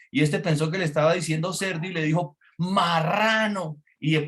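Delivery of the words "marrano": high, drawn-out mock yell; retold shouted retort. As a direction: imitate a driver hollering out the window. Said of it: "sacó la cara por la ventana".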